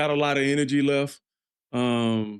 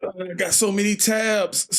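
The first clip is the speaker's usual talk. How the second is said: higher, slow, drawn-out whine; slow whiny drawl; 6 semitones higher, slower than usual. Acted. Streamer lamenting his open browser tabs, slow whine.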